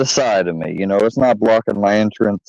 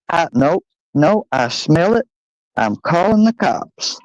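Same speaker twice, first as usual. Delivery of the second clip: put-on a higher-pitched old man ranting; angry grandpa; 7 semitones higher than usual. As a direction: play the grandpa threatening the cops. Grandpa heard through the wall.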